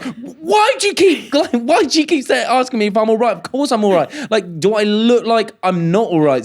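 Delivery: high-pitched exasperated outburst; mock snapping. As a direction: imitate someone snapping, voice shooting up. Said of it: "she fucking snapped at me".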